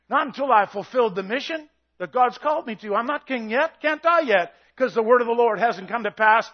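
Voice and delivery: loud, full-force preaching that swells as it goes; preaching shout. Real, not acted. Preacher shouting his faith at the congregation, loud and intense. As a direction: shout the promise over the congregation. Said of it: "I'm shouting at you".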